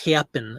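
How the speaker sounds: "happen" with a lazy, fronted A; lazy Midwest A. Shown as a demonstration. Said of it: "Instead of happen, they say happen".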